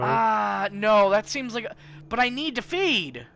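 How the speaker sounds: loud, high, worked-up insistence; agitated protest. Acted. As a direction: protest loudly, voice pitched right up. Player frustrated, insisting on feeding.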